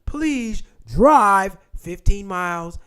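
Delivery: slow, high-pitched fake loan officer; mock scam caller. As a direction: announce the loan in an exaggerated telemarketer voice. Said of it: "They'll call in".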